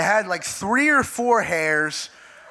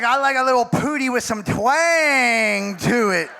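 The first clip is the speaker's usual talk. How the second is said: hint of a drawling roommate, louder; roommate quote; 4 semitones higher, 3 dB louder than usual. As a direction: stretch it out with a loud relish. Acting out roommate's drawled line.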